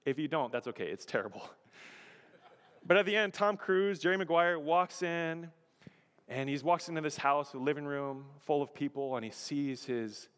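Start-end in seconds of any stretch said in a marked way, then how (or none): none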